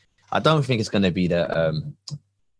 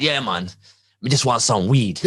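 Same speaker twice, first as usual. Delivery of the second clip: lightly voiced elderly Jamaican; a hint of an old man's Jamaican accent. Old man asks for weed from his car, light Jamaican accent.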